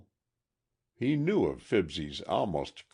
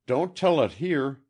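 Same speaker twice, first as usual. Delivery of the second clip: raised, urgent cry; excited cry; 10 semitones higher, 8 dB louder than usual. A narrator's reading. Boy urgently stopping Miss Austin from telling her story, raised cry. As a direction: stop her before she speaks. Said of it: "cried Fibsy".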